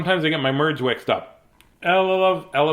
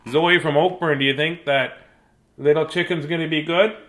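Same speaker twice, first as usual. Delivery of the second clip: usual speaking voice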